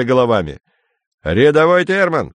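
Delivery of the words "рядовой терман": sharp barked name call; barking sergeant. Acted. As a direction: bark the name like a drill sergeant. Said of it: "рявкнул сержант".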